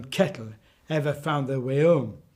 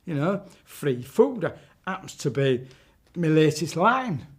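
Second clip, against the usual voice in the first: witch voice. Acted. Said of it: "she said".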